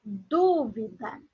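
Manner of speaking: dúvida very slow, with DÚ held long; stress on DÚ. Shown as a demonstration. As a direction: draw out the first syllable of dúvida. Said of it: "a posição da palavra mais forte". (dúvida bem devagar, alongando a sílaba DÚ)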